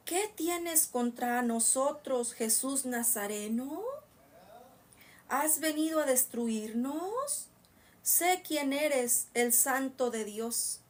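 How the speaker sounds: slow, drawn-out demon's challenge; demonio que habla. Acted. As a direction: stretch the words as the possessed man. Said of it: "el demonio que estaba dentro". (voz lenta y alargada de endemoniado)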